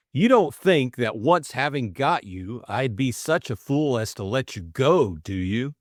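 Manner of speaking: nervous suitor's rush of feeling; earnest young man. Acted. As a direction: blurt out love he has hidden for ages. Bill teasing, possessive.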